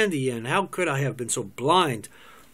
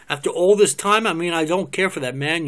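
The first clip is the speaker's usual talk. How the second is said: higher and louder, hit with disbelief; shocked outburst; 3 semitones higher, 6 dB louder than usual. Acted. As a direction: burst out at the news. Shocked reaction to her confession.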